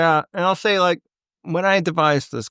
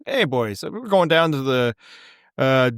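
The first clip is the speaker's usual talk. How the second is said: put-on blue collar Albertan accent. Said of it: "it's a very blue collar, like, white accent".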